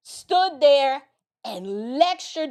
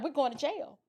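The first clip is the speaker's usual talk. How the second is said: retold panic; 2 semitones higher, 8 dB quieter than usual. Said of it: "I'm freaking out".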